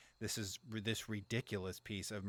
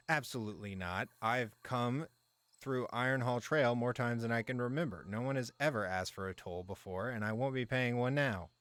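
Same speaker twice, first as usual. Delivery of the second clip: louder, indignant merchant refusing a toll; a merchant shouting down a soldier; angry yelling merchant; 4 semitones higher, 5 dB louder than usual. Acted. Merchant refusing a soldier's toll, indignant and loud. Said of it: "yelling at the man directly in front of him".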